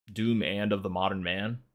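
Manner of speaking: echoing the title with a sceptical rise on "Doom"; mocking disbelief. Real, not acted. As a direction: poke fun at the grand title. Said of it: "You're just making shit up".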